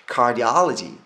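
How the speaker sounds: "cardiology" slowly, hitting the O as a loud "ah"; stress on O. Shown as a demonstration. Teacher modelling the heart specialty word, stressed O. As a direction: punch "AH" in "cardiology". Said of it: "여기가 강세를 받는 부분입니다".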